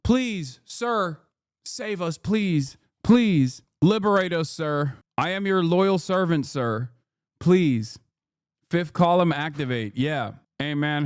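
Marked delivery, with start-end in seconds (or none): 0.0-8.0 grovel like a devoted servant begging rescue; mock groveling plea.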